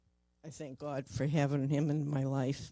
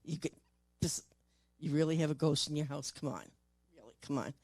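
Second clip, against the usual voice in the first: scoffing skeptic. Retold or imitated. Doubters mocking someone who says their house is haunted, lightly scoffing. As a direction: roll your eyes and brush the ghost story off. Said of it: "they're gonna be like".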